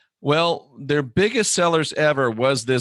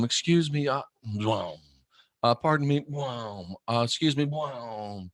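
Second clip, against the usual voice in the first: timid politeness; 5 dB quieter than usual. Retold or imitated. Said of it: "if the bridge was out".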